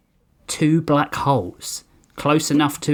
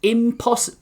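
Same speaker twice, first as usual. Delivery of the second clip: pleading whisper; 7 semitones higher than usual. Acted. Lee pleading with Hank.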